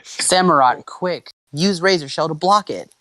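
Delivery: high, urgent trainer's call; shouted command. A narrator's reading. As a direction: call out a quick defence. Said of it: "Ash shouted".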